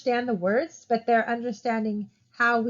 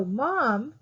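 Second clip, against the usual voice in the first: "Mom" said alone, followed by a pause; word set apart. Shown as a demonstration. Teacher showing where one word ends, "Mom" then a pause. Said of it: "and I pause".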